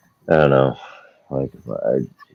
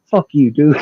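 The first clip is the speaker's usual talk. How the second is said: laughing mock insult; 13 semitones higher, 7 dB louder than usual. Driver snaps, teller laughing.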